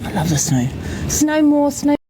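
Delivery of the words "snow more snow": excited plea. Real, not acted. Pleading for more snow.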